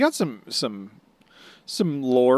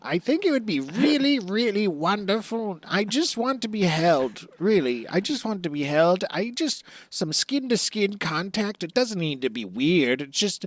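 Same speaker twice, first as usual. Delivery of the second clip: Buggy; 2 semitones higher than usual. Acted. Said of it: "a Tinder profile for Buggy".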